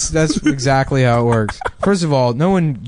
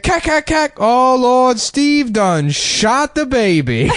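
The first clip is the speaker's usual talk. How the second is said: hammed-up panicked voice; 11 semitones higher, much slower than usual. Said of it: "he's like".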